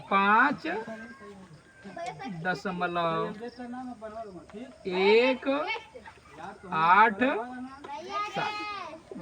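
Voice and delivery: long pause after पाँच, दशमलव, एक, आठ and सात; separated digit-by-digit reading. Shown as a demonstration. Teacher telling the class to read digits separately, spaced out. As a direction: dictate पाँच, दशमलव, एक, आठ, सात one isolated word at a time. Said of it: "अलग अलग। अगर इसे पढ़ना".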